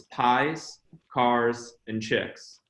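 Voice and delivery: "pies, cars, and chicks" set apart word by word; name memory aid. Shown as a demonstration. Speaker explains his surname to the audience, spacing out "pies, cars, and chicks". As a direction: pause after each part of "pies, cars, and chicks". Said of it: "my last name is pronounced".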